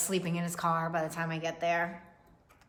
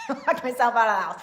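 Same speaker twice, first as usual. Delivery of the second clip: loud, higher mock yelling dad locked out; imagined locked-out dad; 4 semitones higher, 6 dB louder than usual. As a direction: play a fed-up dad demanding to be let in.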